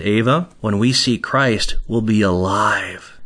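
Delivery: retold fatherly comfort, low and unhurried; reassuring father. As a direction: gently reassure a small child. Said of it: "And I said".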